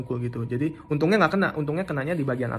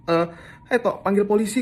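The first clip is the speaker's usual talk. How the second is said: higher, louder urgent shout; retold urgent cry, louder and higher; urgent call; 6 semitones higher, 4 dB louder than usual. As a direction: shout to the flatmate to get police. Calling flatmate to call police.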